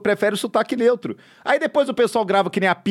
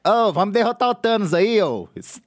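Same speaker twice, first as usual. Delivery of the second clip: put-on Minas Gerais accent. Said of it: "Homem de Ferro".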